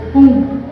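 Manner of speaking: a sudden loud pop spoken as pum; pum sound effect. Shown as a demonstration. Sound effect in sermon example.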